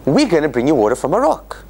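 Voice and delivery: plain, assured statement; calmly assured; confident promise. Shown as a demonstration. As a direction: say it as a sure promise. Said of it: "what it should be saying is".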